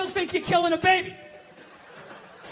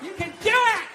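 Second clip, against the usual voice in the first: mock cheerleading; 4 semitones higher, slower than usual. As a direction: cheer her on like a hype squad. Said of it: "They're just like".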